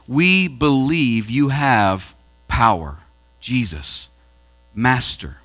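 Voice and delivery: low, slow address to a master; humble, deferential acknowledgement; submissive. Acted. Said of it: "it was also submissive".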